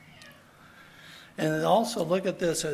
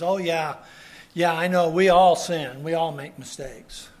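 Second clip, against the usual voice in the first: dismissive shrug; 8 dB louder than usual. Retold or imitated. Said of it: "light attitude of".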